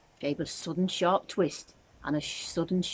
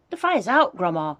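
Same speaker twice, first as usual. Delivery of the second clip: loud, high proud announcement; 3 semitones higher, 8 dB louder than usual. A narrator's reading. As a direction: announce it like a little hero. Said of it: "George announced proudly".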